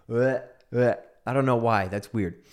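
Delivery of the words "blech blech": a mock gagging blech; disgust. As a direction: sound grossed out. Disgust at big ships.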